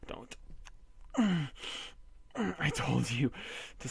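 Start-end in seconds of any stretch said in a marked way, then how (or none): 0.1-0.4 soft, fading to a whisper; hushed soothing. Acted. Husband hushing his crying wife, soft. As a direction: hush her gently.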